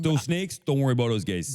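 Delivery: put-on slightly slipping Chicago accent; attempted Chicago accent. Co-host as saint from Chicago, wobbly Chicago accent. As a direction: reassure them in put-on Chicago. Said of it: "what happened to my accent".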